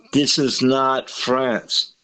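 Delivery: put-on slow, emphatic Irish accent; lightly done Irish accent. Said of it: "I say that with an Irish accent".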